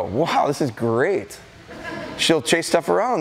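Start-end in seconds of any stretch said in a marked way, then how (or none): 0.0-1.4 dog's delighted voice. Retold or imitated. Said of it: "the dog's gonna go".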